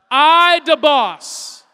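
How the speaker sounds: "da boss" with a d, not "the". Shown as a demonstration. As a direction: say "da" with a hard d sound. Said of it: "Repeat after me one more time".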